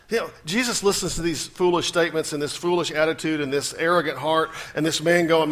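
ordinary talk, nothing marked

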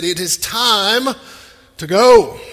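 slow, loud, forceful order; urgent command. Retold or imitated. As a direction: angels ordering Lot out, urgent. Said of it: "It said".

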